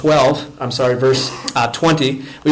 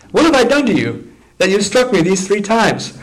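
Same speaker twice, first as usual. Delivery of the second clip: much higher, louder, hurt donkey's cry; pleading donkey; 8 semitones higher, 3 dB louder than usual. Acted. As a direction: give the wounded donkey a voice. Donkey speaks in the story.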